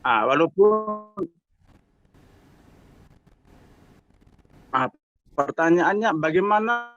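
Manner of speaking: choppy phone line; breaking-up call. Real, not acted. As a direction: voice cutting in and out. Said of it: "Suaranya putus-putus".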